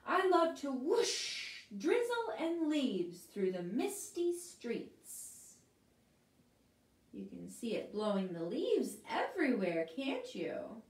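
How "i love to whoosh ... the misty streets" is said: slow, drawn out wind voice; airy lilting wind; whooshy wind. Acted. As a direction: wind telling of misty streets, slow. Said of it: "says the whooshy wind".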